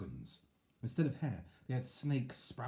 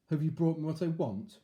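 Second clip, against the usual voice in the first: evil king; 7 semitones higher, 7 dB louder than usual. Acted.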